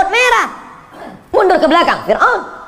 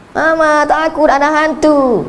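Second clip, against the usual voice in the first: mock scared child; 8 semitones higher, much slower than usual.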